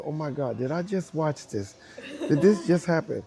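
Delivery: rising mock astonishment; amazed crowd. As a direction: act out onlookers who can't believe it. Retelling the crowd's amazed reaction.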